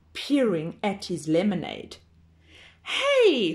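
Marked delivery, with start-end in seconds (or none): 2.8-3.5 high honking goose cry; honking geese. Acted. Geese honking at the farmyard. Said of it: "honked the geese".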